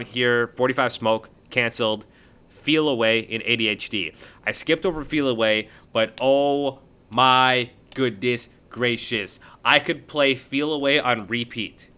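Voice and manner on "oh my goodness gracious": slow, drawn-out gushing praise; gushing amazement. Real, not acted. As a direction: stretch each word out in awe. Gushing over a favourite track.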